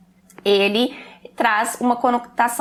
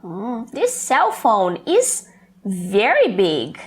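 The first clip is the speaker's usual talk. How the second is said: slow customer remark; 3 semitones lower, much slower than usual. Shown as a demonstration. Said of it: "E aí eu vou e olho".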